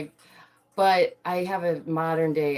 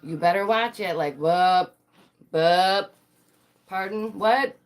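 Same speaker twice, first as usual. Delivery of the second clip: mock confrontation; 2 semitones higher, 4 dB louder, slower than usual. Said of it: "this whole".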